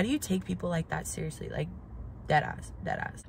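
soft whispered "dead ass"; whispered aside. Real, not acted. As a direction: lean in and confide it. Aside to viewers, serious.

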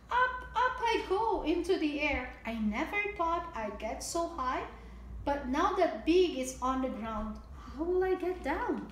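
bright, sing-song storybook read; lilting picture-book reading; reading to children. A narrator's reading. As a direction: read it out like storytime for little ones.

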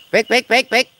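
high, loud repeated calls; calling out. Real, not acted. Calling out to Taufik lost in the dark woods, loud high shouts. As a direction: shout his name again and again into the dark.

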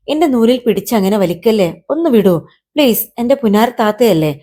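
mild coaxing plea; pleading. Acted. Kite begging big sister to release the string, pleading. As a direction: coax big sister to let go. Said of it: "അവൻ കെഞ്ചി".

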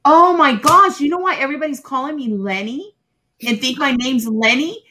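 a burst of discovery on the first words; sudden realization. Retold or imitated. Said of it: "and I was like".

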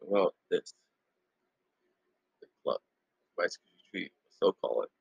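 food at the lips; words between bites; talking while eating. Real, not acted. Seen 1: Cluster held at lips throughout, bites into it near end.

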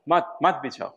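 mat rising, then mat falling into bichhao; demonstrating emphasis on mat, mat bichhao. Shown as a demonstration. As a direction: repeat mat with a rise, then press the second mat down. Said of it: "that is the emphasis".

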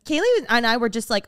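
ordinary talk

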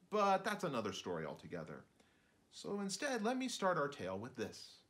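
chatty little shrew telling the tale; a hint of a fussy shrew narrator. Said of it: "our narrator, who's a little kind of a shrew".

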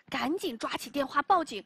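ordinary delivery

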